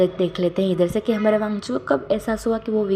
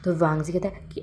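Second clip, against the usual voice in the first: ordinary delivery, nothing marked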